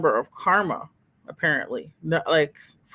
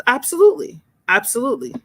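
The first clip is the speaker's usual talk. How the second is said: emphatic agreement; 7 semitones higher, 4 dB louder than usual. Real, not acted. Agreeing loudly with a chat comment.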